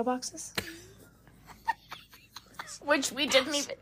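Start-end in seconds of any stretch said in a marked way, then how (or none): 2.8-3.8 a whispered aside. Pretend. Cohost sharing a silly secret, in a whisper. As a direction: hush it like a secret.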